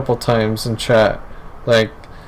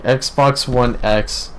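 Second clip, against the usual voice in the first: drawn out; much slower than usual. Real, not acted. Mocking the console name.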